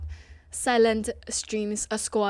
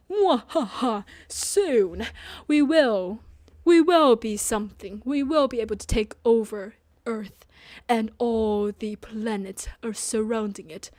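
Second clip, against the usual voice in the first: louder mock villain boast; sneering panto villain; 4 dB louder than usual. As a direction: gloat like a cartoon villain. Mock world domination plan.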